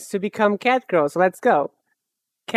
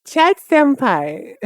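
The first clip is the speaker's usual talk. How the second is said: put-on cat girl voice; 5 semitones higher, 3 dB louder, much slower than usual. Still in cat girl mode.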